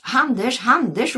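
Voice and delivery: high, loud calls after him; calling out. A narrator's reading. Eddie calling after his brother from the car. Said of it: "ropade Eddie".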